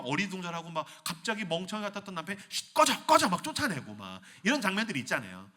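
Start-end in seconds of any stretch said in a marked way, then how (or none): 2.5-3.3 hushed urgent shooing, higher. Acted. King shooing noble.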